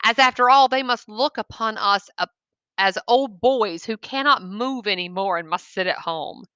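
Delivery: measured read-aloud storytelling; storyteller voice for a classroom; story narration. Acted. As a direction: read the tale to the class, letting it land. Teacher reads short story aloud.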